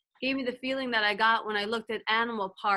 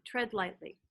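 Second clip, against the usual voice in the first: "tread lightly" repeated much softer, fading; soft echo; 6 dB quieter than usual. Retold or imitated. Pastor echoing Spirit's words, much softer. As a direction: let "tread lightly" fall away like an echo. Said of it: "I kept hearing the words".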